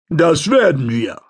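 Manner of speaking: calm rumbling giant's voice; extremely deep bass voice. A narrator's reading. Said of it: "die tiefe Stimme".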